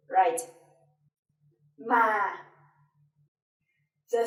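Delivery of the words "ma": "ma" low and sinking gently; low falling tone. Shown as a demonstration. Teacher giving an example of thanh huyền, low falling. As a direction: start "ma" low and let it drop. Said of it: "low falling tone".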